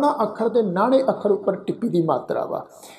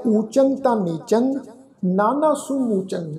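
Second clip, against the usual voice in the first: slow recitation; slower than usual. Shown as a demonstration. Recites verse slowly.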